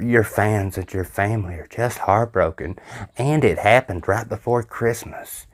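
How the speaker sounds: a hint of a syrupy medium, hamming up the grief; mocking the medium's voice. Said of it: "He uses that voice".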